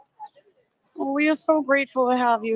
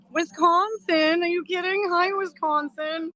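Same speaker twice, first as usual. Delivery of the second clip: delighted surprise; 4 semitones higher, slower than usual. Real, not acted. Surprised greeting to viewer location.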